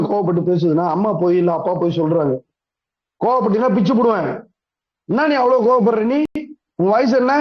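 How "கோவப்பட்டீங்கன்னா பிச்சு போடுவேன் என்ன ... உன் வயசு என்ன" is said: mock angry parent. Parent telling a child off for getting angry, mock angry. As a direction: scold like a cross parent, play-acted. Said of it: "கோவப்பட்டு தான் சொல்றோம்".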